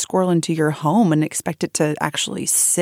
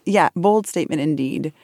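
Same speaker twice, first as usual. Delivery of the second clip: real giggle breaking through the words; can't hold the laugh in; lowered voice, laughing as you agree; 3 semitones lower than usual. Real, not acted. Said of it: "holding my breath to keep from chuckling".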